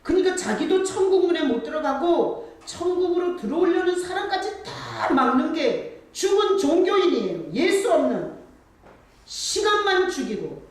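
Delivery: high, loud sermon climax; fiery preaching. Acted. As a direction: hammer it home from the pulpit. Preaching at full force. (높고 힘찬 설교 절정)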